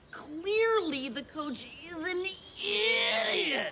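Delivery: drawn out, haughty put-down; slow snooty jab. Acted. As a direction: sneer it slowly. Mocking the coach loudly.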